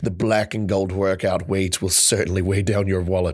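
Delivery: measured, low-pitched blurb reading; reading product copy aloud. Real, not acted. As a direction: read it off the list like a catalogue blurb.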